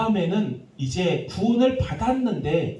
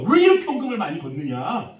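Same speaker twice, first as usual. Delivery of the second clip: mock angry complaint; 5 semitones higher, 5 dB louder than usual. Voices angry youth complaining.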